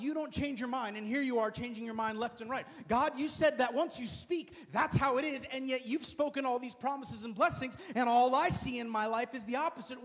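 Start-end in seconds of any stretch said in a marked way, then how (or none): 2.9-10.0 impassioned appeal. Acted. Passionate appeal to God.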